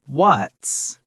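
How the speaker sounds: "what's" lifted slightly in pitch; slight rise. Shown as a demonstration. Teacher points out intonation to learners, "what's" pitched slightly up. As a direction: raise the voice a little on "what's". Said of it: "It goes up slightly on".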